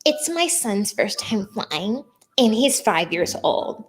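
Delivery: a hint of slow, hushed mock politeness; entitled dad. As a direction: put on a mild, overly polite parent's request. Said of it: "he tells the flight attendant".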